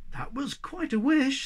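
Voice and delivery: slow, kindly approval; kind, measured reply. Acted. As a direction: draw it out indulgently. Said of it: "said the Hobgoblin kindly".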